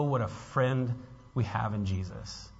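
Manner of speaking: normal talking voice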